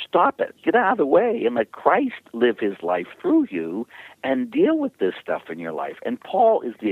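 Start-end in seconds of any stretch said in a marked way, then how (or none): 0.1-2.2 high, sharp command; firm stop. Shown as a demonstration. Priest telling strugglers to stop it, high firm command. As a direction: tell them to stop, bluntly. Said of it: "what I say is".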